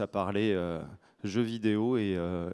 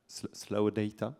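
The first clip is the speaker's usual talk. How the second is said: "slow data" said with an English "slao dɛita"; careful slow English "slow data" in a French accent; English accent, French speaker; slower than usual. Shown as a demonstration. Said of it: "j'ai un accent anglais assez mauvais".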